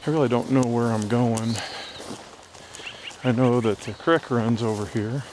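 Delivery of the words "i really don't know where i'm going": breathing hard while hiking uphill; winded, talk between breaths. Real, not acted. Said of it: "Sorry I'm breathing hard".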